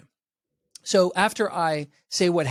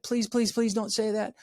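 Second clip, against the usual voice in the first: mock pleading; 7 semitones higher than usual. Voicing a pleading child.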